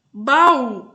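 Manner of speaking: "Baú" loud and drawn out, ba-ú; split into syllables. Shown as a demonstration. Teacher showing pupils another hiatus, "Baú" loudly split in two. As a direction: sound the "a" and "ú" of "Baú" as separate syllables. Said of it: "O A separa do U".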